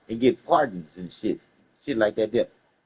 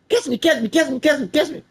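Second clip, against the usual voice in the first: higher, louder call for help; hollering; 12 semitones higher, 3 dB louder than usual. Retold or imitated. Calling to the policeman while falling, a hollered plea. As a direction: holler catch me, pitch climbing. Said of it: "I holler out".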